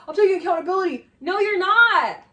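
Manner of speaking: heated mock retort. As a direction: fire it back fast. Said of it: "She's like".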